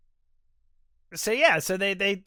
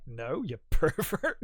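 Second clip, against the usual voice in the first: laughing quote; slower than usual. Retold or imitated. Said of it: "He's like".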